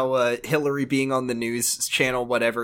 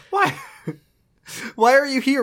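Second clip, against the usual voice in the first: mocking high voice; 10 semitones higher than usual. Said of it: "Why was that Jesse?".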